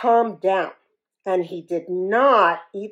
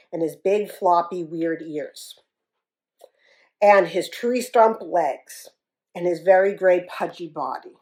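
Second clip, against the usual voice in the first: ordinary delivery, nothing marked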